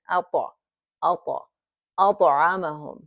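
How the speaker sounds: أطعمهم with a light bounce on the ط; light qalqala. Shown as a demonstration. Teacher drilling the light qalqala. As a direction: tap the ط in أطعمهم and move on. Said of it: "Just for a little emphasis".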